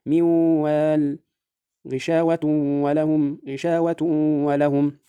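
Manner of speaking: n merged into a long held nasal hum, as in "من يقول"; idgham with ghunnah. Shown as a demonstration. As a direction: melt the n into the next letter and hold the hum in "من وال". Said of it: "أمثلة على الإدغام بغنة". (إدغام النون بغنة ممدودة، مثل "من يقول" و"من مال")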